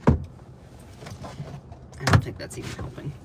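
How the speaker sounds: slow, unvoiced whisper to herself; whispered aside. Real, not acted. Vlogger whispering to herself mid-stream. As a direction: breathe it out as a private aside. Muttering aside while eating.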